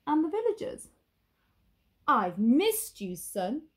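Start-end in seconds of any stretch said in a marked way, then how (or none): 2.1-3.7 tender captain. Acted. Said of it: "said the pirate captain".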